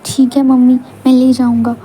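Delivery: exaggerated copycat of his reply; mocking imitation. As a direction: mimic his ठीक है mummy in a loud, sing-song mocking tone. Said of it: "आप ही ने तो बोला ना".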